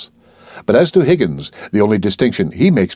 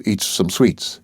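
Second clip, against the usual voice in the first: usual speaking voice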